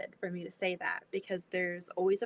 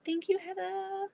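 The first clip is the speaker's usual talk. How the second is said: sing-song; 9 semitones higher than usual. Real, not acted. Sing-song thanks to friend.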